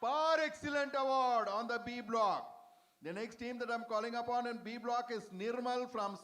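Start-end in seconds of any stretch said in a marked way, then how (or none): 0.0-2.5 award proclamation. Real, not acted. Host naming a team's award on B block, proclaiming. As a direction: announce the award with a raised voice.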